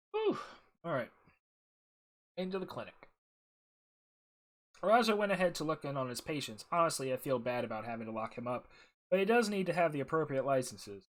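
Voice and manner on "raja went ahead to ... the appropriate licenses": lively, projected reading of a character's lines; voiced-up quest briefing, lightly acted; game dialogue read-aloud. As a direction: read the dialogue out clearly with some lift.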